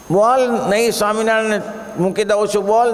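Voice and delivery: high, quick mock threat; acted threat. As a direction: demand it like a bully in a retold story. Bully threatening a devotee in the story. (ઊંચા અવાજે ધમકીનો અભિનય)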